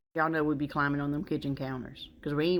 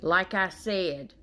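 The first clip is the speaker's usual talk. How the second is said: pointed warning; 2 semitones lower than usual. Retold or imitated. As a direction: lay down a final warning. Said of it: "we say something like".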